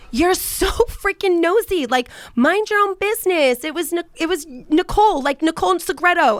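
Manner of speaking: acted exasperated retort; mock annoyance. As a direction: retell it with indignant emphasis. Voices husband's annoyed retort.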